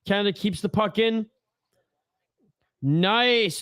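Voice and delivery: steady hockey commentary voice; live play-by-play. Acted. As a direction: call the game as it happens.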